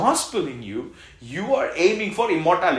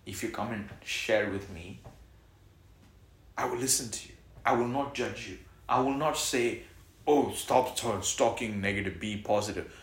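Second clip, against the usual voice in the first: softer, reassuring tone; gentle; 4 semitones lower, 5 dB quieter than usual. Real, not acted. Pastor comforting troubled members, soft reassurance. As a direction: ease off and comfort them.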